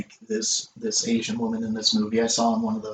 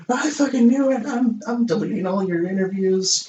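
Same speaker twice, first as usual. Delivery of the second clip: mock furious; 10 semitones higher than usual. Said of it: "And she's like".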